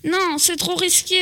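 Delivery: lent, presque en pleurant; peur, au bord des larmes. Acted. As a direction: supplie d'une voix tremblante de peur. Frightened boy refuses. (voix effrayée qui pleurniche, lente)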